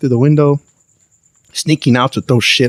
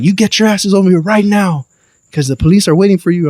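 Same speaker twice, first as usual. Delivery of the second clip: higher-pitched mock scolding; angry mother's order; 6 semitones higher than usual. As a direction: imitate a mom ordering kids over at once. Retells mother ordering them over.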